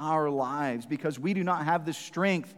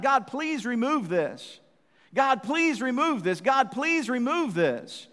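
pleading prayer; 6 semitones higher, slower than usual. Retold or imitated. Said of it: "but he's asking God".

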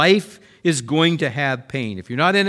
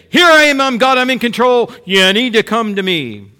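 much louder, higher mock divine proclamation; booming God voice; 6 semitones higher, 7 dB louder than usual. God revealing himself to everyone, loud and commanding. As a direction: announce yourself as God to the crowd. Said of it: "get everybody's attention and say".

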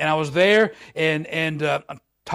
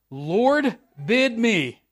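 Peter calling out; 6 semitones higher, much slower than usual. Shown as a demonstration. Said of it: "I did that right, didn't I?".

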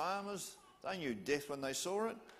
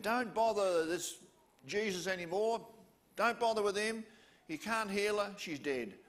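blunt loud warning; 5 semitones higher, 4 dB louder than usual. Acted. Messengers telling Jairus to stop.

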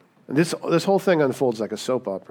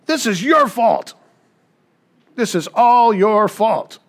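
higher, louder, slow furious accusation; angry blame; 8 semitones higher, 6 dB louder, slower than usual. Acted. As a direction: jab each word at him, blaming. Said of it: "She turns to Abram and says".

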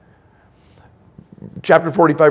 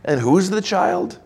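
God's rebuke; 5 semitones higher than usual. Retold or imitated. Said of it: "God is saying".

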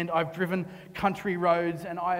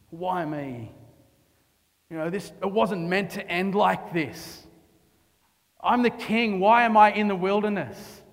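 rising protest, building louder and louder; frustrated David; 5 dB louder than usual. Retold or imitated. Preacher voicing King David, a frustrated loud complaint. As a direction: complain like a king thrown out of his own palace. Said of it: "I can imagine him".

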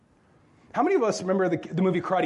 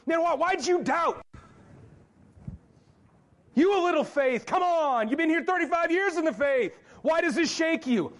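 harsh Jesus; 8 semitones higher than usual. Retold or imitated. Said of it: "Is Jesus going".

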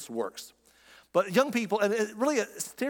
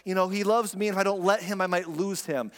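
put-on insecure girl; 4 semitones higher than usual. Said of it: "they'll be like".

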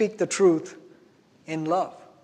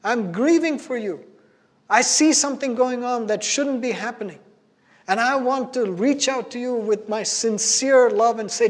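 grieving father's plea; 4 semitones higher than usual. Retold or imitated. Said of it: "He's saying".

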